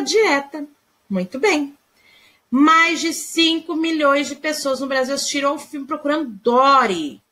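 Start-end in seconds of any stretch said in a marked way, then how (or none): 2.5-7.2 mild amazement, a firm landing on Dory; surprise and admiration. Shown as a demonstration. Teacher rereading the example to show surprise, mildly amazed. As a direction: read it as if the number impresses you. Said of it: "Olha só a surpresa, a admiração".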